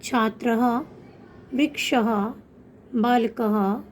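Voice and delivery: छात्रः, वृक्षः, बालकः each ending in an audible "ha"; visarga pronunciation. Shown as a demonstration. Teacher showing children the visarga, छात्रः, वृक्षः, बालकः ending in a clear "ha". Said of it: "जिसकी ध्वनि ह होती है".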